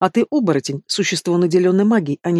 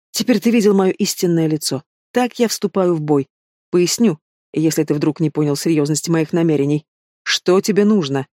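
cold metallic demon. Acted. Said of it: "Голос принца зазвучал иначе".

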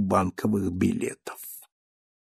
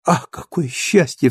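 mild joyful cry; 2 semitones higher than usual. Acted. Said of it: "вскричала Казетта".

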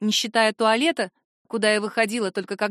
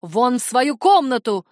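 slow, loud angry command; ordering; 5 dB louder, slower than usual. Acted. Mother orders her daughter to her room, loud and slow. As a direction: send her away, word by word. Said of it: "приказала мама".

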